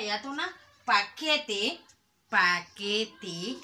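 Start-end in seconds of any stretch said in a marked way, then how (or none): 0.8-1.8 paquete with the middle que strongest; paquete, weight on the second syllable; stress on QUE. Shown as a demonstration. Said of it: "La sílaba tónica es la que". 2.3-3.6 paquete split slowly into pa, que, te; teacher's measured pa-que-te; syllable by syllable. Shown as a demonstration. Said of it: "Y decirlas por, eh, sílabas".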